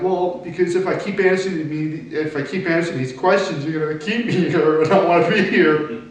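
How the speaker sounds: mild upset plea, not full sobbing; retold tearful plea. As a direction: voice rising as she retells the tears. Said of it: "so then I start crying".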